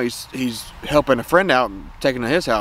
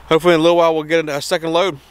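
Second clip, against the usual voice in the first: excited; 5 semitones higher, 3 dB louder, much faster than usual. Real, not acted. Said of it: "I'm very excited".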